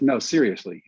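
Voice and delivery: mildly insistent, as the scout retold; insisting scout. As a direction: press for a real answer. Scout presses for a real answer.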